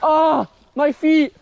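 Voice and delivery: high pained yelps; pained yelling. Real, not acted. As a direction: cry out at freezing feet. Cold wet feet on ride.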